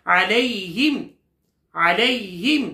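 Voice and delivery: measured tajweed recitation with a rising end; chanted recitation; Quran recitation. Shown as a demonstration. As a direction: recite for students to repeat. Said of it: "آپ میرے ساتھ پڑھ لیں".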